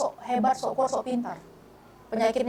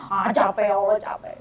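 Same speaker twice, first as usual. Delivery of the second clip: put-on childlike complaint. Speaker praying to Allah like a tired child, mild whine. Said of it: "kayak anak-anak kalau doa".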